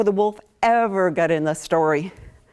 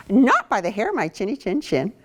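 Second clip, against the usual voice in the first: lightly voiced defiant pig; a hint of a stubborn little pig; 4 semitones higher, faster than usual. Pig refusing the wolf, mildly defiant. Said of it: "the pig says something about the chin".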